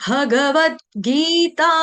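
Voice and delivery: slow, each syllable of भगवत गीता drawn out; slow careful recitation. Shown as a demonstration. Teacher slowly models भगवत गीता for students. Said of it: "मद् भगवत गीता में देखो".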